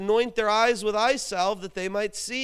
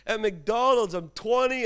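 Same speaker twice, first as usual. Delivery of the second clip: indignant protest; 4 semitones higher, 5 dB louder than usual. Retold or imitated. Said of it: "I was like".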